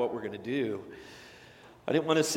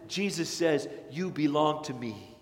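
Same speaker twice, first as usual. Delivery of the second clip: gentle answer. Acted. Softer answer after preaching.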